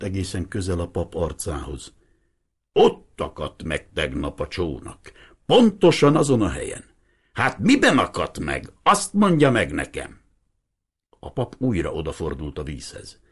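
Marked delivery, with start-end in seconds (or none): 2.7-10.2 a lightly voiced old man, insistent; old fisherman. Old Hiribi demanding the priest explain the boat, lightly voiced.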